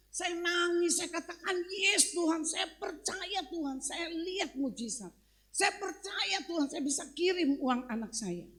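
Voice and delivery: high, fervent cry of faith to God; retold prayer with rising fervour; impassioned preaching.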